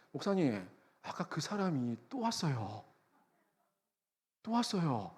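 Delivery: soft, slow, secretive warning; hushed phone report. Retold or imitated. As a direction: pass on uneasy news under your breath. Colleague's wary phone call, retold. (조용히 소곤대듯 알리는)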